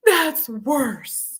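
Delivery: high mock wail of a child; crying whine. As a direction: wail it like an upset little kid. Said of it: "she's crying and whining".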